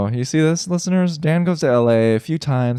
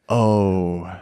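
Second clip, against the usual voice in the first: lightly voiced Australian accent, a bit lower; a bad Australian accent, lower pitched; 5 semitones lower than usual. Imitating Jacob Elordi's interview praise, mild Australian accent. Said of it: "That's in your Australian accent".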